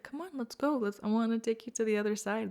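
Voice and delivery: gently urging someone to come along; smiling invitation. Retold or imitated. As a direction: voice a friendly, eager beckoning. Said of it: "he's, like, smiling at me".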